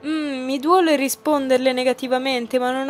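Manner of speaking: slow, exaggeratedly polite nobleman's address; mock formal courtesy. Teasing Chrome about his manners, slow mock-courtly politeness. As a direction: lay the courtesy on thick, teasing. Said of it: "È arrivato il momento di prendermi un po' gioco di lui".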